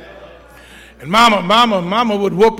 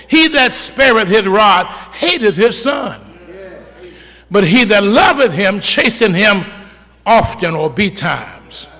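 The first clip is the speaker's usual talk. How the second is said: preaching scripture; slower than usual. Acted. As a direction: proclaim each word slowly to the congregation.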